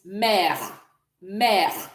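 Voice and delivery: "mère" slow, with an open è; soft French e. Shown as a demonstration. Teacher gives mother in French, soft è. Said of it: "So the E is also soft".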